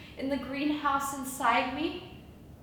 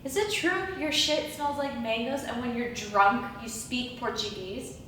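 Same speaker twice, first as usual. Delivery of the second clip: soft, low, wondering questions; hushed questioning; 4 semitones lower, 8 dB quieter than usual. Acted. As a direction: ask it softly, as if to a visitation. Awed questions to an angel.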